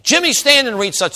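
high, loud call across a room; uncle calling out. Retold or imitated. Uncle calls on shy nephew before the school, loud summons. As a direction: imitate a preacher summoning a pupil. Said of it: "he calls on me".

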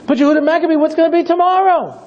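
worried followers. Retold or imitated. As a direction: plead with the leader.

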